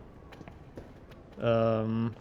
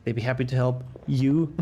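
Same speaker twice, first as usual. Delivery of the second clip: mock game voice. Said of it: "Great intonation, beautiful".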